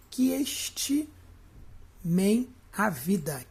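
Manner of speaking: "Que estimem a vida" broken by long pauses; split reading. Shown as a demonstration. Teacher showing the joined syllable, "Que estimem a vida" in halting pieces. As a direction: run "Que" into "estimem", then halt before "a vida". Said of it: "por que que não separou aqui".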